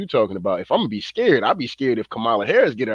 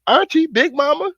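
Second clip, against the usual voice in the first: mock pundit; 6 dB louder than usual. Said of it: "trying to rally folks up".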